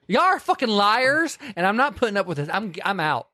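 lightly hammed-up heroine storming out; mock Kate Winslet. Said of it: "Okay, Kate Winslet".

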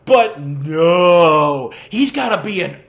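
loud exasperated outburst, near a shout. Real, not acted. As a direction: yell it out in frustration. Ranting about the character's choice.

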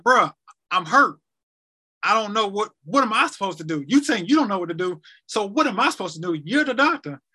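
pleading protest with lively pitch swings; retold exasperated plea. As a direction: re-enact challenging the doctor, punching some words. Acted protest to his doctor.

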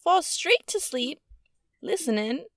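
halting stab at a Jersey accent; attempted Jersey accent. Shown as a demonstration. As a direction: try it in New Jersey, phrase by phrase. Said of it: "How do I say that in a Jersey accent?".

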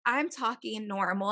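ordinary talk, nothing marked

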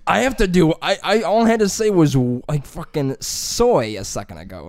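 loud, high flustered complaint; mock panic. Student lost in Spanish class, loud and high. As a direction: sound overwhelmed and baffled. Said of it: "And you're like".

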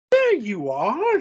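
high, drawn-out British exasperation; exasperated British woman, pitched high; British accent. A narrator's reading. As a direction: put on a slow, high British voice. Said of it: "my Andrea suddenly became British".

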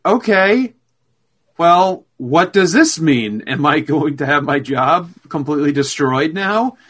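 alarmed clerk. Retold or imitated.

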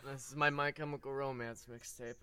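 lightly voiced mopey teen, low; Wirt impression. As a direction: mumble it like a gloomy teen. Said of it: "my Wirt impression".

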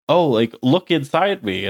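slow, seductive voice; a light mock seductress; sultry female voice. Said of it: "she's like".

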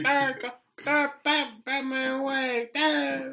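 high, loud hammed-up hero call; a boy hams up Batman taking off, high and loud; mock Batman exit. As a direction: shout it like a cartoon hero flying off. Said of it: "You just hear me".

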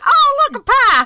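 high, loud, delighted gasp at a pie; delighted surprise. Acted. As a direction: squeal it like finding a treat. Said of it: "it's just like".

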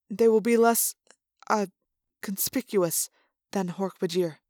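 timid, hesitant suggestion; cowering plea. Acted. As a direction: nervously suggest to a dangerous boss. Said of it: "said timidly".

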